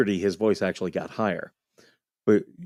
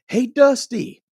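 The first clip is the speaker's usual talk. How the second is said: higher, louder call across the street; mock call-out; 13 semitones higher, 4 dB louder, slower than usual. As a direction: call out to the kid on the bike, teasing. Older brother calling to kid.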